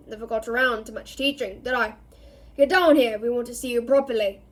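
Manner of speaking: gruff and quick, bark the order; growling Moody. Acted. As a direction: growl it fast, impatient. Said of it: "growled the voice".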